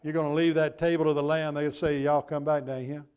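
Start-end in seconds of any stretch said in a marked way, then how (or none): 2.0-3.0 a light Southern drawl, chuckling through it; mock Southern welcome, said with a laugh. Pastor joking about heaven's language, light Southern drawl. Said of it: "it's gonna be with a southern drawl".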